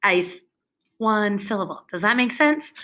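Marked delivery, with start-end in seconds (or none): 0.0-0.4 "Ice" as one level mechanical beat; robot voice. Shown as a demonstration. Teacher plays robot, "Ice" in robot voice.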